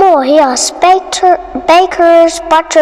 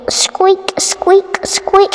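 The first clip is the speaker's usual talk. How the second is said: mouse squeaks; 5 semitones higher, much slower than usual. Acted. Mice squeaking.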